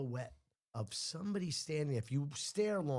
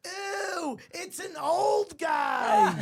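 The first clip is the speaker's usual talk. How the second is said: high, slow, loud yell of disgust; disgusted shriek; 8 dB louder, much slower than usual. Retold or imitated. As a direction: shriek it out, grossed out. Girl discovers old man inside.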